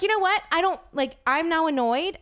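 mildly exasperated, pitch lifted at first; annoyed. Retold or imitated. Guest retelling her comeback to the fan, annoyed. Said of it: "I'm annoyed".

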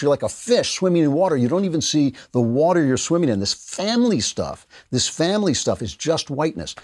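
sarcastic mimicry of a condescending explainer; mocking imitation. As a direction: parrot their lecture with exaggerated weight on the words. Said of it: "they keep saying this".

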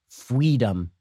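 "Freedom" said with a W for the R; mock toddler pronunciation. Host mocking the stroller story, toddler lisp on "Freedom". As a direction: say "Freedom" as a babyish "fweedom". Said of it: "it is spelled F W E E D O M".

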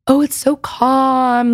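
slow, drawn-out mock calm; mock soothing voice. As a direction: slowly ham up a soothing podcast voice. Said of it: "my voice is soothing".

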